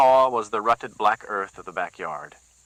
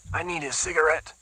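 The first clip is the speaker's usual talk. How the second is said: Whitey pleading; 8 semitones higher than usual. A narrator's reading.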